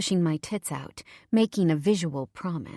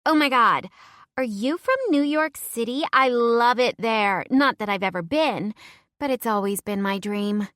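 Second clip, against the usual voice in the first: higher, louder, gushing excitement; excited gushing; 5 semitones higher, 5 dB louder than usual. Acted. Heather gushing to the newcomer about New York, excited and high. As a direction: squeal with delight over New York. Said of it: "She bounces up and down excitedly".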